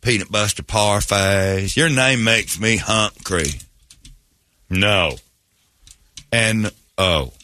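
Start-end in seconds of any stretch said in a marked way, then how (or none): 0.0-3.5 mock country lawyer in a Southern accent; hillbilly lawyer. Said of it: "You're my lawyer".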